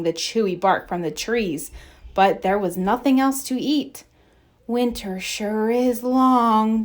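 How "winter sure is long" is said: sighing. Acted. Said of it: "Bambi sighed".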